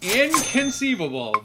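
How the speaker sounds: drawn-out high inconceivable; Vizzini inconceivable. Retold or imitated. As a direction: exclaim it slowly like Vizzini. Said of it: "so I think you're going inconceivable".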